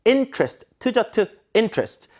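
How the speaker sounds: interest in two beats, "IN-trist"; weakened back part. Shown as a demonstration. Teacher modelling, interest reduced to two beats. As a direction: stress IN in interest, squeeze the rest. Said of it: "아니라 interest".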